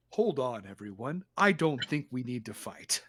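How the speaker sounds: low, soft voice, defusing a fight; easy, hushed appeal for peace; calming peacemaker. Acted. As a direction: settle everyone down, quiet and low. Peacemaker steps in to stop fight.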